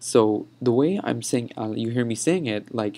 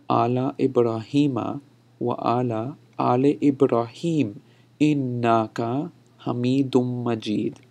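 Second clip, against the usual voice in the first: emphatic verse demo. Shown as a demonstration. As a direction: recite it phrase by phrase for learners. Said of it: "one more time for emphasis".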